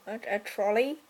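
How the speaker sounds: "trolley" with a rising, questioning lift; unsure question. Real, not acted. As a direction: ask "a trolley?" as if unsure it's the word. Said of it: "I don't think there's any other name".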